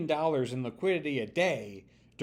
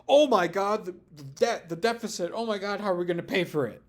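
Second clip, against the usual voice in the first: louder, fast mock alarm; mock deficit panic; 4 semitones higher, 4 dB louder, faster than usual. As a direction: ham up the fretting conservative. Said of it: "but now all of a sudden".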